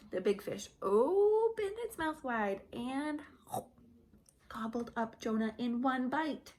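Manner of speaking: put-on lively, animated storybook voice for little kids; reading to children. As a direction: tell it like a Sunday school story. Reads Bible story to children.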